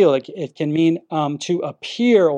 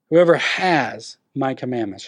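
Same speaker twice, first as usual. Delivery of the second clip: slow reading; 4 semitones lower, slower than usual. Shown as a demonstration. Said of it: "break it down by each part".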